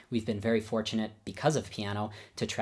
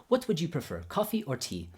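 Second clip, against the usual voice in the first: higher-pitched imitated Babayan accent; 6 semitones higher than usual. Teacher offering his guests drinks, in imitated Babayan accent. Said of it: "I'll do my best Babayan accent".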